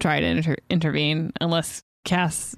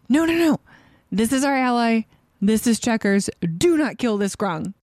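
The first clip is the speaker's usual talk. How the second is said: whisper yelling; 2 semitones higher, faster than usual. Retold or imitated. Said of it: "whisper yelling".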